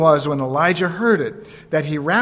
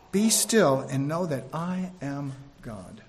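softer, lower and slow; gentle repeat; 3 semitones lower, 5 dB quieter, slower than usual. Shown as a demonstration. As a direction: let it settle as a quiet reminder. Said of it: "repeated softly".

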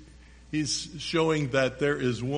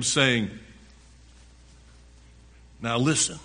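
emphatic, projected Bible reading; preacher reading scripture to the congregation; 3 semitones higher, 7 dB louder than usual. A narrator's reading. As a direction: read it out loud, punching key words. Reads scripture aloud, forcefully.

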